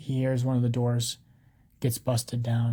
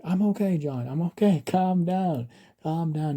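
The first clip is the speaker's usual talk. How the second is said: slightly raised, easy calming voice; almost smiling reassurance; 5 semitones higher than usual. A narrator's reading. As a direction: reassure them with a smile in the voice. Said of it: "he's almost smiling".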